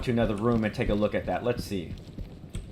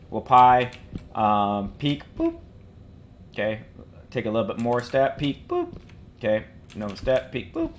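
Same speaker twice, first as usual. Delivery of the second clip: playful squeaky boop. Shown as a demonstration. Demonstrating peeking rhythm.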